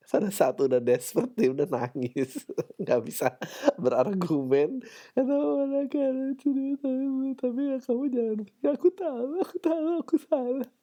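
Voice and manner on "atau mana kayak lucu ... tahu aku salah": high, whimpering voice of a guy begging; mock the sulky boyfriend pleading; whiny crying boyfriend. Podcaster mocking a boyfriend who won't be dumped, whiny high voice.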